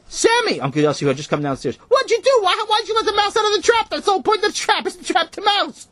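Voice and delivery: high, loud yelling uncle; alarmed yell. Acted. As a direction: shout it in dismay. Uncle yells at freed mouse.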